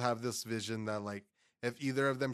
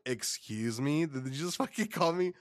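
mock indignant surprise; 2 semitones higher than usual. Retelling the honey ham message, mock offended. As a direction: play offended, laughing. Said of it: "And I'm like".

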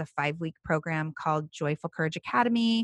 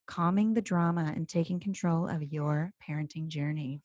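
saucy voice. Acted. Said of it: "Audible-esque saucy voice".

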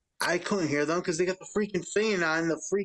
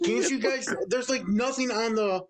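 higher, drawn-out complaint; retold exasperation; 5 semitones higher, slower than usual. Store worker to customers asking for milk, retold exasperation. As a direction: plead the obvious in a raised pitch.

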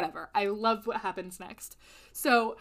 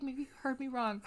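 whisper; 10 dB quieter than usual. Retold or imitated. Casey whispering fake name to guard.

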